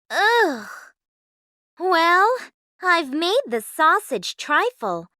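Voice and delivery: a sigh of distaste, then thinking aloud; lightly voiced young heroine; Cinderella thinking. A narrator's reading. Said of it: "Cinderella thought to herself".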